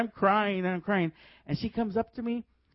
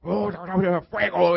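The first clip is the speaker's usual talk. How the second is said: garbled babble bursting into a louder shout; imitated preacher's shout; 5 dB louder than usual. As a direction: mimic an intimidating minister calling out. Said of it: "he's, like".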